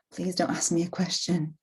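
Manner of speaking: soft, nervous inner plea; hope nobody calls on you; quiet plea. Retold or imitated. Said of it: "inner voice in the meeting".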